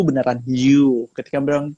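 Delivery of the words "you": British "you", drawn out and louder; British accent. Shown as a demonstration. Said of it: "di British accent".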